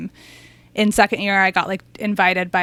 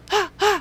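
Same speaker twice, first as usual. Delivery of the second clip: gasp; 12 semitones higher than usual. Retold or imitated. Imitating screaming person.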